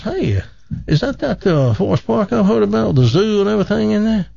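high, scoffing boastful Texan; bragging Texan. Acted. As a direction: scoff and brag like a big-talking Texan. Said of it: "his buddy from Texas goes".

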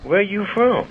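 high-pitched Texas lady's drawl. Shown as a demonstration. Re-enacting a Texas lady's question on request, high Texas drawl. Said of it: "How'd she say it again?".

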